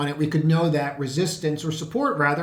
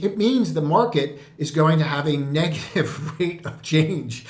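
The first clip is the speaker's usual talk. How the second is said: stifled laugh; slower than usual. Real, not acted. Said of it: "I'm trying not to laugh".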